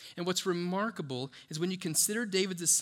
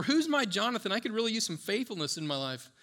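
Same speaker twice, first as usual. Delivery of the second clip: mock needy plea; 5 semitones higher, 3 dB louder than usual. Mock needy churchgoer asking.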